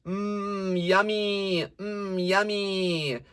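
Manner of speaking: bright twangy buzz placed up front; buzzy forward tone. Shown as a demonstration. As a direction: make "buzz" sit nasty and forward. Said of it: "It's not basal in your nose".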